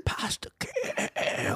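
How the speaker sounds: high, laughing, slow; squeaky laugh. Pretend. Mocking sad vegan meal.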